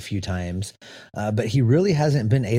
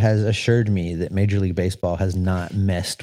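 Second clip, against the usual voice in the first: mock serious; 5 semitones lower than usual. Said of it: "couldn't even say it with a straight face".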